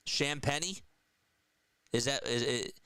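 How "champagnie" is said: "Champagny" as SHAM-penny, rising; questioning pronunciation check. Shown as a demonstration. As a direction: ask "Champagny" with a short a, then "penny". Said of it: "is that how you say it?".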